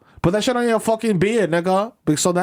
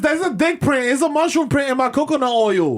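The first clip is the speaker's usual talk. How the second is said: put-on outraged girlfriend; 6 semitones higher than usual. Outraged actress girlfriend role.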